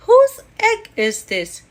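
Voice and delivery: high, loud call across the path. Acted. Boy calling out loudly to whoever owns the egg. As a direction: shout the question out to anyone nearby. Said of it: "he called".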